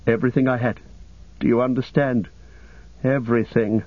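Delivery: a touch of anguish; despair. Acted. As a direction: let hopelessness creep lightly into the voice. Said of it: "despair overwhelmed him".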